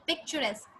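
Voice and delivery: "Picturesque" repeated softly, pitch falling at the end; "Picturesque" as a quiet teacher's correction; model pronunciation. Shown as a demonstration. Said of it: "it's pronounced as picturesque".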